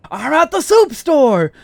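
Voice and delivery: high, slow, squeaky shout of the punchline; squeaky mock outburst about the soup store; shrill soup store cry. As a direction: blurt it out in a silly squeal. Phone skit punchline.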